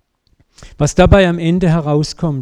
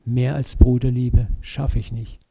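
sad. Retold or imitated. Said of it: "Petrus sagt traurig".

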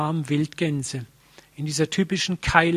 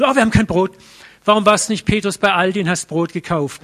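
mock squabble; 2 semitones higher, 5 dB louder, faster than usual. Disciples bickering over forgotten bread.

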